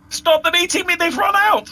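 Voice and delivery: very high, loud, plaintive cry; plaintive high-pitched. Acted. Dindy calls out to the orcs, very high and plaintive. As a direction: squeal it in a panic.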